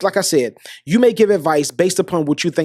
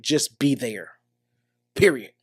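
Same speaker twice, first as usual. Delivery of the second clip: soft low emphasis; 6 semitones lower, 5 dB quieter than usual. Real, not acted. To a listener whose friend was cheated on, low hushed emphasis. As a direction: lower and softer, dropped to a hushed close. Repeats key advice softly.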